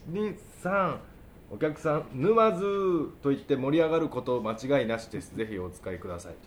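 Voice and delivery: muffled behind a hand; talking with a hand over the mouth. Real, not acted. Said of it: "口を押さえながら喋るから".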